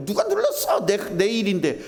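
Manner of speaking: very high mock-indignant demand; quibbling, territorial. Preacher mimicking someone whose rice-cooker job was taken, indignant. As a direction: act out a stickler whose chore was taken, voice leaping up. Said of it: "그런 거 따지는 분이잖아요".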